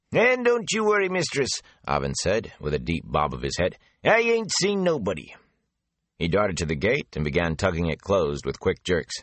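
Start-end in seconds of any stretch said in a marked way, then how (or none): 0.1-1.6 higher, folksy gossiping gatekeeper; a garrulous country man passing on rumours; chatty rustic gatekeeper. Acted. Avin reassures Moraine. 4.0-5.3 folksy promise, voice raised; a knowing country man vowing silence; higher rustic gatekeeper. Acted. Avin promises secrecy.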